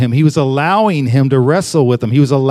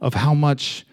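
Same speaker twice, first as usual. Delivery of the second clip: small still voice. Retold or imitated. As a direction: let the words fall to a tender near-hush. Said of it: "little, little small voice".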